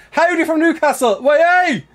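loud high Geordie "Way, hey!"; a light Geordie accent; Geordie cheer. Retold or imitated. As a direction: cheer it like a Newcastle fan. Reading Geordie greeting aloud.

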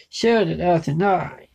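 slow vampire line, then low laugh; Count Dracula. Acted. Vampire speaking of the night, slow with a low laugh. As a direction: speak slowly, then drop into deep ha-ha-ha. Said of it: "Count Dracula goes".

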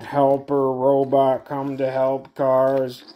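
slow choppy helper robot. Pretend. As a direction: speak like a friendly machine. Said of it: "you sound like the Pupil".

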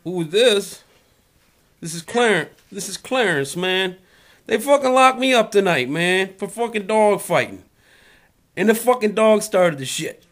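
agitated caller voice. Acted. Agitated caller character, louder.

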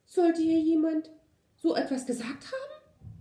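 high-pitched timid mouse voice; anxious squeak. A narrator's reading. Little mouse asking the dog, anxious high squeak. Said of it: "piepste das Mäuschen ängstlich".

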